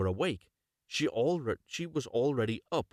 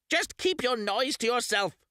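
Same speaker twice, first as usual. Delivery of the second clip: much higher, louder witch voice; old witch; 13 semitones higher, 4 dB louder than usual. Acted. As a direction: shut the weeping girl up. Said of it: "said the old woman".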